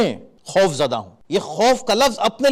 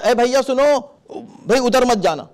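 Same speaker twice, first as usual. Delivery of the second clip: calling a stranger; 5 semitones higher than usual. Shown as a demonstration. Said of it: "ایک اجنبی ہے تو آپ".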